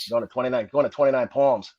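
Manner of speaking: put-on light Boston accent; a touch of Boston accent; Top McGrath. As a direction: imitate a Boston sergeant, mildly. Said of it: "you got that accent down".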